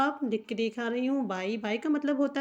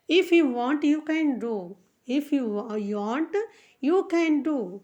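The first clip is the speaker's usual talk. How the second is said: slow dictation; much slower than usual. Shown as a demonstration. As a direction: dictate the sentence slowly for learners. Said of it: "इसका हम sentence बनाते हैं".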